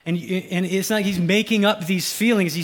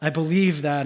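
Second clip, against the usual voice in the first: earnest declaration; 5 semitones higher, 5 dB louder than usual. Retold or imitated. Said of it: "He's like".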